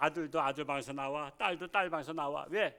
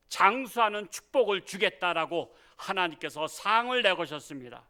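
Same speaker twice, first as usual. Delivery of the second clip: building, louder pulpit prayer; fervent prayer; 5 dB louder than usual. Acted. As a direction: pray with rising fervor to the congregation. Pastor leads prayer. (점점 뜨거워지는 기도)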